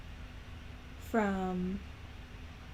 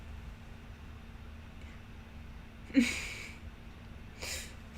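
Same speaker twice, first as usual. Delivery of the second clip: stifled laughter; 3 semitones higher, 11 dB quieter than usual. Real, not acted. Cracks up at own voice.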